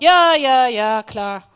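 mock dismissive agreement; dismissive yeah yeah. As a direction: brush it off, loud and quick. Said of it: "Und ich hab so gesagt".

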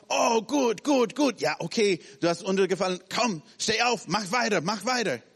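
bright coaxing come on, keep going; encouraging parent. Acted. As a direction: pick the kid up with cheer. Parent cheering a fallen child.

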